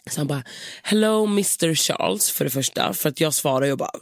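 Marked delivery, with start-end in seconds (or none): 0.8-2.3 mock receptionist with a slow Spanish-accented English. Night receptionist waking her up, light Spanish accent. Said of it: "han har så här lite spansk brytning".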